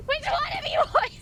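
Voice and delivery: high-pitched mock scolding, close to crying; touched, near tears. Real, not acted. Asking chat who sent the gift, tearfully whining. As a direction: whine it affectionately, overcome. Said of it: "trying to make me cry".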